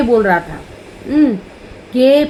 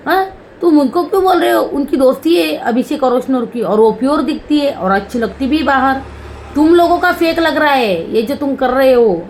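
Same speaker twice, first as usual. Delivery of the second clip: higher, faster, lightly voiced indignant woman; quick mock scolding, pitched up; imitating Malti; 4 semitones higher than usual. Vlogger retelling Malti telling off Basheer, higher and quicker. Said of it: "Bashir को बोल रही थी".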